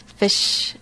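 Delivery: fish with a clipped central NZ i; New Zealand short i. Shown as a demonstration. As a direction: say fish the Kiwi way, the vowel pulled short toward uh. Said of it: "The short I vowel sound is the most obvious".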